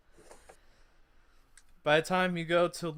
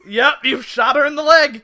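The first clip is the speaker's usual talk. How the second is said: loud laughing announcement; 7 semitones higher, 13 dB louder than usual. Real, not acted. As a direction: laugh it out in disbelief. GM laughing at the shot.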